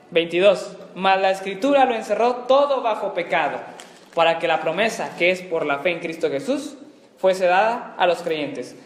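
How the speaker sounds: firm, projected verse reading; scripture reading. Acted. Teacher reading the next verse to students, scripture reading. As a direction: read it out phrase by phrase, weighting key words.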